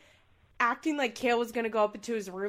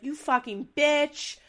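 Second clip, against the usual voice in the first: mock angry yell; 3 semitones higher, 5 dB louder than usual. Retold cursing quote.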